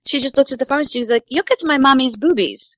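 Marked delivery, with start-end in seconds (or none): 1.3-2.8 put-on slightly raised little-kid announcement; matter-of-fact toddler, retold. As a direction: lightly imitate a two-year-old piping up. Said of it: "She was two years old".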